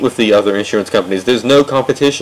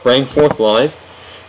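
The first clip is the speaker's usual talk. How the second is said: "bring forth life" drawn out very slowly, mocking; mocking repeat; much slower than usual. Shown as a demonstration. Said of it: "Okay, first off".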